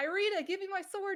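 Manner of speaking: high, pleading yell. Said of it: "Can I yell".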